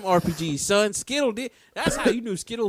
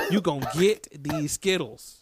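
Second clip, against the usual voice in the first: slow emphatic repeat. Real, not acted. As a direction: draw out "gonna get these Skittles" for emphasis. Repeats hype line, slower, lower.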